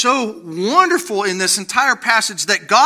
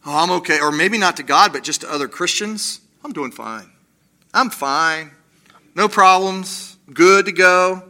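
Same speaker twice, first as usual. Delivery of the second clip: mock brave face; 2 semitones lower than usual. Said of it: "Put on a strong face".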